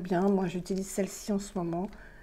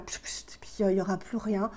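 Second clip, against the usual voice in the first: whispered aside; 5 dB quieter than usual. Retold or imitated. Mimics a foam fizzling away.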